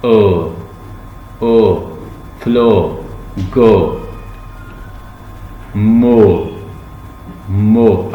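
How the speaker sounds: ओ, फ्लो, गो, मो each held long; teacher drilling long oo words; long oo drills. Shown as a demonstration. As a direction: model each word with a long oo. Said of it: "long ओ".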